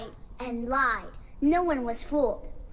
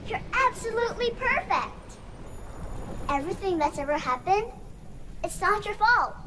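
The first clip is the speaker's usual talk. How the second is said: put-on higher, gentle young girl's voice; tender daughter's farewell; 4 semitones higher than usual. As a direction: comfort her father one last time. Dying daughter speaks to father.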